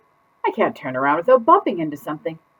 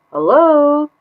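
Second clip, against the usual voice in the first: cheery hello; 8 semitones higher, 6 dB louder than usual. Acted. Fish greets new tankmate cheerfully.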